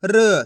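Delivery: "र" sounded alone with a short neutral vowel; teacher sounding out "र"; isolated letter sound. Shown as a demonstration. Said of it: "एक एक अक्षर का उच्चारण करके".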